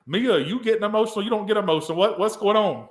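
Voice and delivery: high, loud, incredulous questioning; mock astonishment. Asking Mia about getting emotional, mock astonishment. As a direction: pitch it way up, playfully taken aback.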